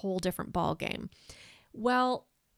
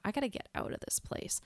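whispered thought; 2 semitones higher, 6 dB quieter, faster than usual. Retold or imitated. Panicked thought in crowded room.

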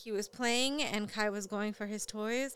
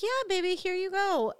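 high bright, louder praise; cheery mom voice; 10 semitones higher, 5 dB louder than usual. Retold or imitated. Mother cheerfully handing her son the toy. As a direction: sing it out to a toddler.

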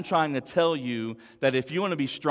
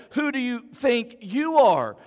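taunting voice; 4 semitones higher, 5 dB louder than usual. Acted. Preacher voicing the enemy's taunts to the congregation, loud and mocking. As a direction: sneer like a voice in your head. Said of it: "that taunting voice in our head".

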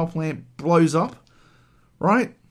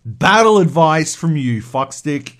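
mock-angry, forceful telling-off; heated, emphatic acted tirade; irritated rant; 5 dB louder than usual. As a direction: sarcastically tear into the advice-giver. Imagined resentful rant at Cloud.

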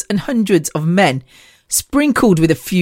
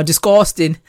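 attempted Liverpool accent; 2 semitones lower than usual. Shown as a demonstration. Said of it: "I use that a lot now".

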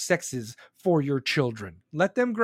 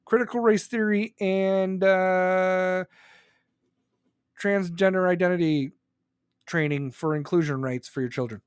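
mock concession. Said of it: "You're like".

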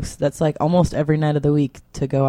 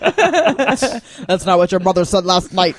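lightly attempted Connery, slow and laughing; a bad, half-hearted Scottish star impression, drawn out; Sean Connery; slower than usual. Comic riffing on Jeopardy sketch, badly faked Connery taunt. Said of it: "that was the worst Connery".

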